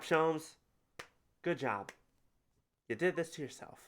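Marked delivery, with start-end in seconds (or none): 1.4-1.9 deadpan repeat. Shown as a demonstration. Echoing the game's praise, deadpan. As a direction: throw it back dryly.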